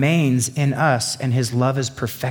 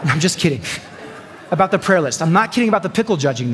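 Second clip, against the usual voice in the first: laughing; 2 semitones higher, faster than usual. Real, not acted. Laughing at own joke.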